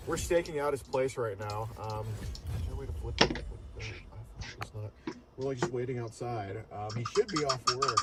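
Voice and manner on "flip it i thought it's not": hushed stakeout whisper. Real, not acted. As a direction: whisper so he can't hear. Staking out the house, hushed.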